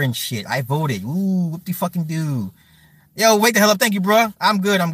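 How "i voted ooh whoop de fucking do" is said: sarcastic fake cheer, drawn out; mocking. Streamer jeering at voters with their stickers, mocking. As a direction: draw out the mock celebration.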